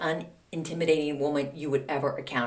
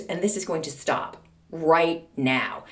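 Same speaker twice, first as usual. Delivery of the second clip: slow, deliberate retold warning; firm ultimatum; 2 semitones lower, slower than usual. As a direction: lay it down word by word.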